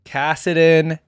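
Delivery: hyped champion intro; hyped name announcement. Real, not acted.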